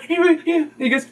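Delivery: high, thin mock whimper; child starting to cry. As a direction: imitate a small child tearing up. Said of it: "tears falling down his face".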